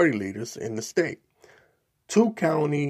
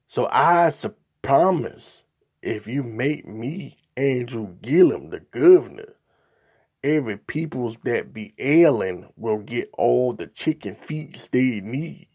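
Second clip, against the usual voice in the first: lightly voiced robocall caricature, a bit louder; reading mock minstrel dialect; 3 dB louder than usual. Imitating robocall voice asking Floridians for votes, mild caricature. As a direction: read it the way the racist robocall sounded. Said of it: "I'm reading it like that because that's the way the robocall sound".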